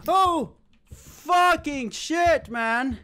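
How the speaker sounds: terrified groan. Real, not acted. Scared in dark horror game.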